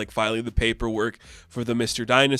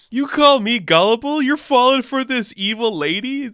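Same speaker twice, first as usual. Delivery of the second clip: high, loud mock outrage; indignant outburst; 10 semitones higher, 5 dB louder than usual. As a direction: protest in hammed-up disbelief. Gods indignantly scold Zeus, acted.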